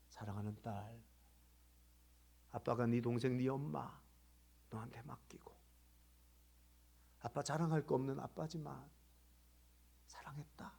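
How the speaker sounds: soft, low retelling of a farewell note; hushed last letter. Retold or imitated. A father's last note to his daughter, hushed. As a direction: read it gently, letting phrases fade almost to whisper.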